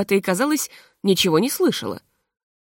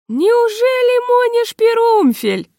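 very high, loud, slow cry of delight; overjoyed; 6 dB louder, slower than usual. A narrator's reading. Artist joyfully recognizes an old friend, high and slow. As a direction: stretch it out in joyful disbelief. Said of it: "обрадовался японец".

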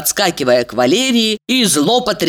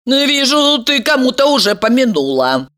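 sarcastic; 8 semitones higher than usual. A narrator's reading. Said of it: "с сарказмом заметила Елизавета".

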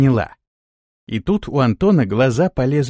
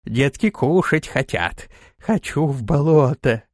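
creature voice; 2 semitones higher, slower than usual. Acted. Kikimora creature speaking.

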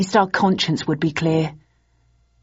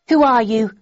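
higher, louder demand; woman's voice; 6 semitones higher, 5 dB louder than usual. A narrator's reading. Woman on phone questioning the caller, higher voiced. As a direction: challenge the caller.

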